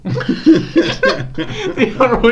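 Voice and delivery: loud high laugh, slow; breaking up laughing. Real, not acted. Laughing at dad's word.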